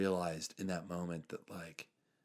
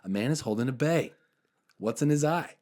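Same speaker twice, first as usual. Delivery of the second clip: put-on louder, higher riddle in a Jersey accent; emphatic Jersey repeat; 5 semitones higher, 8 dB louder than usual. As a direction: repeat it insistently as a Jersey guy, voice raised. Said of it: "And he repeats it".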